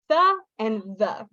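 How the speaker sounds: THE whispered-voiceless then THE voiced; THE and THE as contrasting TH sounds; two TH sounds. Shown as a demonstration. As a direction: show both TH sounds, first THE voiceless, second THE voiced. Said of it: "two different T H sounds".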